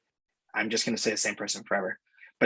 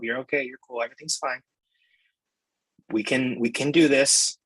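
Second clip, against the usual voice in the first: put-on comforting a child. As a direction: soothe a crying kid, lightly. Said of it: "Just like I tell my kid when he's sad".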